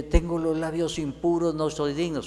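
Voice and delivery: lightly voiced nervous Isaiah; a touch of unworthy fear; nervous prophet. Isaiah answers God's call, mildly nervous. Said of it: "él se puso nervioso".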